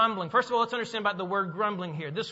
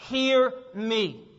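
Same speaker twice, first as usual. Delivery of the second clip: urgent call for attention; 2 semitones higher, 3 dB louder than usual. Acted. Jesus to his hearers, urgent call for attention. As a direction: demand that they really listen. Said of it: "It's like saying this".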